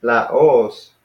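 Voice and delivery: "Laos" with the weight on OS; last-syllable stress. Shown as a demonstration. Teacher repeating the corrected word, end-stressed. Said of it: "accents in there".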